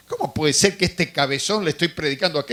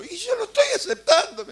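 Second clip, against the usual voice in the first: much higher, laughing protest; laughing exasperation; 14 semitones higher than usual. Retold or imitated. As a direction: laugh through the frustration. Recuerda su frustración riendo. (risa exasperada, mucho más aguda)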